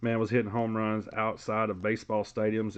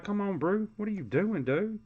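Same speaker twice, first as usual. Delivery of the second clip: voicing a hyped ballplayer, higher pitched; imitating the excited player, higher than usual; fired-up player; 10 semitones higher than usual. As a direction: play the player egging Brew on, pitch up. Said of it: "Look, he's like".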